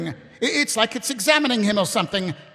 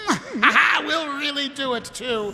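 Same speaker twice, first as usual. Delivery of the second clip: giddy laughing; 5 semitones higher than usual. Acted. Vimes answering Ramkin, giddy laughing. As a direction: giggle through it.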